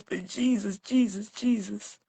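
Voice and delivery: soft prayerful repetition of the name; grieving plea. Real, not acted. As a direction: call on Jesus under your breath. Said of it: "I don't call your name like this".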